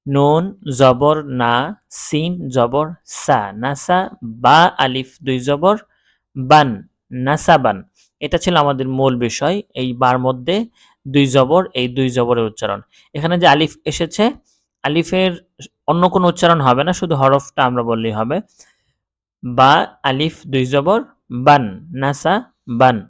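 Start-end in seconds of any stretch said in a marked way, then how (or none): 0.1-7.8 slow, measured syllable-by-syllable recitation; spelling drill. Shown as a demonstration. Teacher showing learners double zabar, slow spelling chant. 19.4-23.0 slow, measured syllable-by-syllable recitation; spelling drill. Shown as a demonstration. Teacher showing learners double zabar, slow spelling chant.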